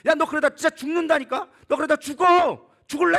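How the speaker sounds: loud, high threatening shout; escalating mock-furious outburst; acted cursing. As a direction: yell a warning, hammed-up. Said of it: "저주하기 시작합니다".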